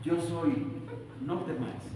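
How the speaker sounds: soft film voice. Pretend. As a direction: breathe it like a quiet film line. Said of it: "Así como en las películas". (susurro suave de película)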